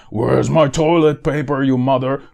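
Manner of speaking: mock panicked yell. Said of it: "stupid Hollywood trailers".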